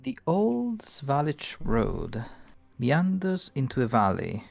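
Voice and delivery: measured game master read-aloud; scene-setting narration. Acted. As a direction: set the landscape before the players, phrase by phrase. Game master reads scene description.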